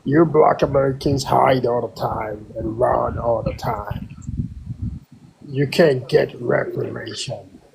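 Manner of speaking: a fake accent, held steady; trolling the room in a put-on voice. Caller trolling the room about Charlie Kirk, put-on accent. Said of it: "not with that troll voice".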